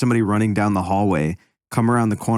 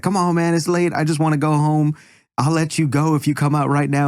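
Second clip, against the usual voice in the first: higher, mildly raised pleading call to a ghost; mock yelling; 7 semitones higher than usual. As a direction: imitate a scared guard calling out. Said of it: "he just keeps yelling".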